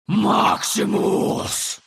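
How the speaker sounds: slow whispered monster cry; creature cry. Acted. The creature cries a name in desperation.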